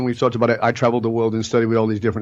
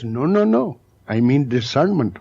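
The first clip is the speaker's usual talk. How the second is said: put-on Indian accent. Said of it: "That's why I do the accent".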